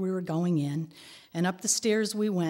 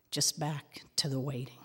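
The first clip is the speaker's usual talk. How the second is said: whisper; 3 semitones lower, 6 dB quieter than usual. Real, not acted. Sad resignation after son jailed.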